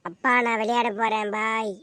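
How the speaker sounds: high, loud call to dad while running off; an excited kid yelling bye. Acted. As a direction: shout it over your shoulder. Son calling out leaving.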